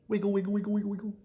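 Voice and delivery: high, playful chant; sing-song wiggle; child wiggling toes in new socks. Acted.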